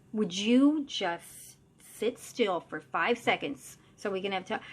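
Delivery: drawn-out, slow start of exasperation; exasperated plea. Retold or imitated. Medium trying to get creature to stop, exasperated. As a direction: stretch the opening words, pleading for patience.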